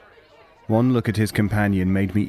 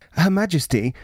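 pompous official; 9 semitones higher, 3 dB louder than usual. Acted. Chambers voiced, pompous official.

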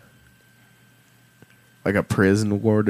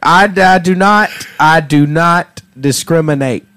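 hammed-up Southern warden; nice Southern warden boasting; Southern accent; 3 semitones higher, 3 dB louder than usual. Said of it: "you're a good Southern warden".

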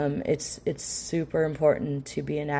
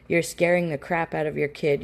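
ordinary talk, nothing marked

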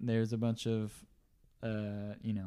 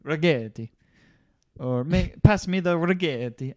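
a hammed-up Italian accent, a bit louder; bad fake Italian accent, played for a laugh; mock Italian accent; 2 semitones higher, 5 dB louder than usual. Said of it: "I should stop doing accents".

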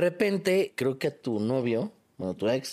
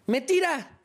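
laughing; 10 semitones higher than usual. Real, not acted. Laughing while retelling the fall.

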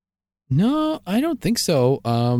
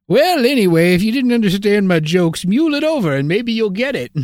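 put-on old prospector comic; 3 semitones higher than usual. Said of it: "old prospector does a tight five".

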